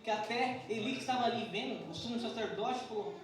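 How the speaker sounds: fervent sermon storytelling; impassioned preaching. Real, not acted. Preaches with raised force.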